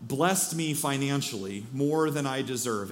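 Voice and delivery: lightly imitated Southern cowboy; a hint of a Southern drawl; Southern accent. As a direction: retell it in a mild Southern accent. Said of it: "that's my best accent".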